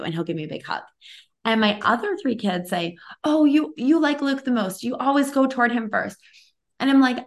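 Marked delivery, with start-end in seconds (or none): 3.2-6.2 put-on jealous kids' complaint. Kids complaining about favoritism.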